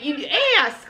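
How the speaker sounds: "ask" with a long, stretched A; slow down and stretch the vowel in ask; drawn-out vowel. Shown as a demonstration. Showing own accent, drawn-out A in ask. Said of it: "my vowels are very drawn out".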